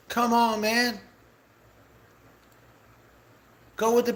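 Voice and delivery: pitched high and pushing hard, pleading with viewers; heated rant. Real, not acted. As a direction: rail against the company and beg people to listen. Heated rant urging viewers away.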